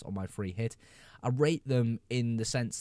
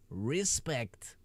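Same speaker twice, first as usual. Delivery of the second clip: breathy whispered respect; mock reverent whisper. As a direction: hush it out as a whisper.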